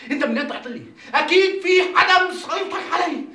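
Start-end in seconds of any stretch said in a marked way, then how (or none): 1.1-3.2 frantic rant. Acted. Ranting at Atiyya.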